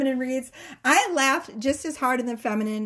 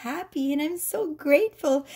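higher, sweetly contented voice; happy feminine; 5 semitones higher than usual. Acted. The feminine showing her little possessions, happily grateful. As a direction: lightly mimic a grateful woman. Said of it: "And she's like".

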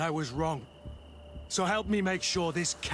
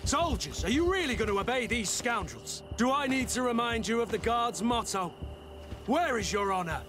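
raised voice; 6 semitones higher than usual. Acted. Captain rallies soldiers against officers.

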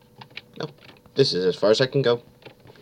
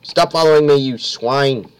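loud annoyed shout; yelling at pursuer; 2 semitones higher, 3 dB louder than usual. Real, not acted. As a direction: yell at the chaser.

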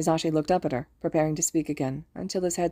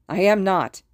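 loud, defensive snap; snapped denial; 2 semitones higher, 7 dB louder than usual. A narrator's reading. Hisashi rejecting Mitsuki's accusation, snapped denial. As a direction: deny it hard and loud. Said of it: "Hisashi snapped".

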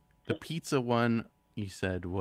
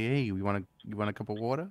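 "water" run quickly into the rest, softer at the end; fast casual; 5 dB quieter, faster than usual. Shown as a demonstration. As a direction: rattle it off like everyday talk. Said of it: "if I'm just talking real fast and say".

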